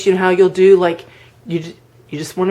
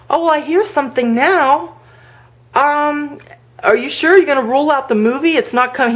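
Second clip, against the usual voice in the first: playing dumb; 7 semitones higher than usual. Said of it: "I played really stupid".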